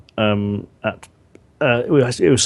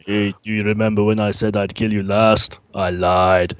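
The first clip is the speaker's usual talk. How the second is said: mock action-hero menace, a lightly voiced Terminator; Arnold Schwarzenegger. Co-commentator doing Arnold for stream viewers, mock menace. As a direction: growl it out like a cyborg who lied. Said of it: "Arnold Schwarzenegger impressions".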